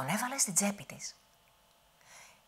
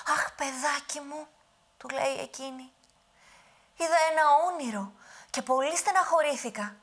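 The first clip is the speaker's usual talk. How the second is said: put-on high, loud old woman's lament; fretting old grandmother; 9 semitones higher, 5 dB louder than usual. Witch pretends a bad dream to the giant, high old voice. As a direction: sigh it like a worried granny.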